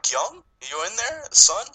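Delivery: high, slow call rising loud on son; lightly voiced anxious parent calling; worried parent calling. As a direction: call out for the boy.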